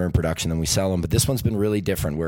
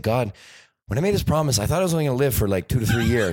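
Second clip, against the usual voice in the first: higher, joking lament upward; mock plea to God; 5 semitones higher, faster than usual. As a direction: complain to God with a grin.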